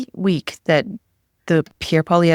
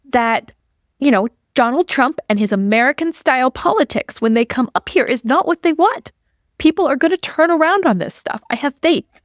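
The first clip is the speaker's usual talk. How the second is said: kindergarten teacher voice; 8 semitones higher than usual. Acted. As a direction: talk down like a teacher to five-year-olds. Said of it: "in my best kindergarten voice".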